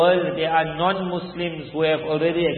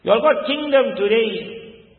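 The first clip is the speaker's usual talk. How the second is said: imitating a boy confronting a tyrant; mildly stern, accusing recitation; accusing address; 3 semitones higher, faster than usual. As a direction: speak it straight at the oppressor, not tunefully. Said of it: "He's speaking to Bashar al-Assad".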